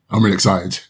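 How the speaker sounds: flat, deadpan delivery; monotone voice. Pretend. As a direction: say it with zero enthusiasm. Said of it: "as you can tell by my monotone voice".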